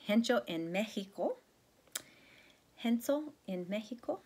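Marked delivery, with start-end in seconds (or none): 2.8-4.2 higher Castilian Spanish rendering; lightly put-on Castilian accent. Shown as a demonstration. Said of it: "say it with a Castilian accent".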